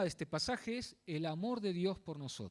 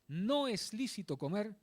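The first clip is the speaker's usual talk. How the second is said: slow, deliberate "no es lícito"; stress on no es lícito; 2 semitones higher, slower than usual. Real, not acted. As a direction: repeat it slowly, weight on "no" and "lícito". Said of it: "recalco esto". (recalcar "no es lícito" despacio y con firmeza)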